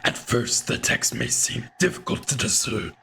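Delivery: a lightly voiced old hunter, raspy and half-whispered; a hint of a weathered hunter, rasping in a breathy half-whisper. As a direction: growl it out like an old hunter in the dark. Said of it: "I can't do this voice for very long".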